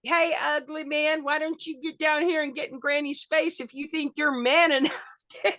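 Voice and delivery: high, pushed ringside dare, laughing at the end; Granny daring the wrestler to face her, hollering; hollering challenge. Retold or imitated. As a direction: call him out into the ring. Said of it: "we were going back and forth".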